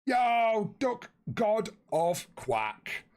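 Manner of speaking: playful hammed-up herald greeting. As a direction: announce him like royalty. Greeting a viewer by name.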